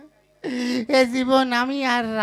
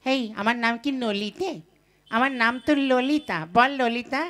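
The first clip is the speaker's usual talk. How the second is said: usual speaking voice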